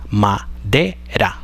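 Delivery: madera said slowly, split clearly into ma-de-ra; syllable by syllable. Shown as a demonstration. Teacher showing students the syllables, slow and deliberate. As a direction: spell out madera slowly, one syllable at a time. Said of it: "tiene tres sílabas abiertas".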